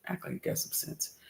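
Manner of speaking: under the breath, toneless, scolding the laptop; muttered at computer. Real, not acted. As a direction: grumble it to the machine, not the viewers.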